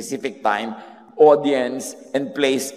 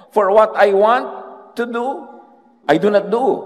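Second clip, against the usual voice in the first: desperadong sigaw; 11 semitones higher, 7 dB louder than usual. Acted. Paul's anguished self-quote.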